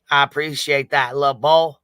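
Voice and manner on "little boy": loud mock accent tag; Betty. Streamer slipping the bit into her thanks, mocking accent. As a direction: slip loudly back into the fake accent. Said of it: "have to stop with the little boy".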